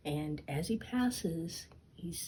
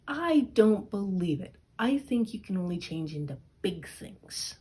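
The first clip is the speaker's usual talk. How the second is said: louder, higher challenge, then settling; teasing cat; 3 semitones higher, 5 dB louder than usual. Acted. Puss in Boots daring the ogre, loud teasing doubt. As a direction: egg him on with mock doubt.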